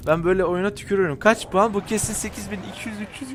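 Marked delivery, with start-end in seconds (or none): 1.7-3.3 muttered. Real, not acted. Muttering final score.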